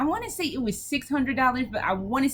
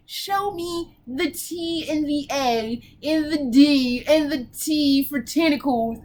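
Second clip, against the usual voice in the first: eager; 2 semitones higher than usual. Real, not acted. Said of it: "my body and soul are ready".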